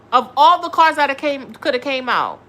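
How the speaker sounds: loud, incredulous over the cards; loud disbelief. Real, not acted. Tarot reader to viewer, loud disbelief. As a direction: throw it out loud, can't believe the card. Reacting to STD card drawn.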